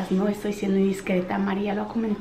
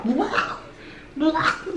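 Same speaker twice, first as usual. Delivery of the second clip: retching noise; 6 semitones higher than usual. Retold or imitated. Imitating daughter vomiting.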